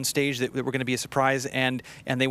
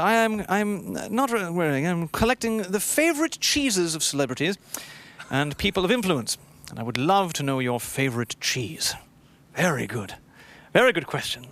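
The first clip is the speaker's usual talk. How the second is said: put-on a light, half-hearted British accent; playful mock British accent reading a fan question. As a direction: read it with a hint of British accent. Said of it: "I'm gonna read it in a British accent".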